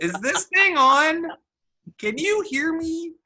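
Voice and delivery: high testing-the-mic call; mic check. Pretend.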